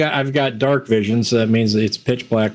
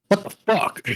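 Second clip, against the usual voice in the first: surprised; 9 semitones higher than usual. Retold or imitated. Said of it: "finally kicks in, like".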